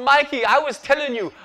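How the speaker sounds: a hint of the Dominican manager setting him straight; Dominican manager's accent. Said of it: "He's from Dominican Republic".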